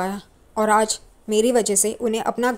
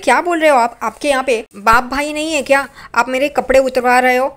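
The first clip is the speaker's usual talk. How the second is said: indignant protest; 2 semitones higher, 4 dB louder than usual. Acted. Tejas protests being stripped.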